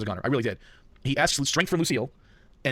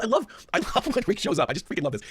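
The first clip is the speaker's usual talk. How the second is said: thrilled; 6 semitones higher than usual. Retold or imitated. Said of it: "Negan is thrilled to see".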